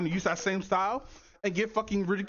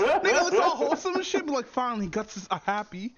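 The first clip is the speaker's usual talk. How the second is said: laughing; 5 dB louder than usual. Real, not acted. Laughing at Guts meme.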